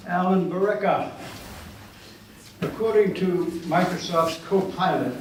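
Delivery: deliberate bio read with pauses for effect; formal introduction. Acted. Host introducing a poet to the audience, formal announcing.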